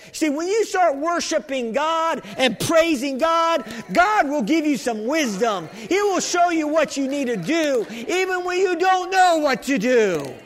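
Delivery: preaching. Real, not acted. Preaching to congregation.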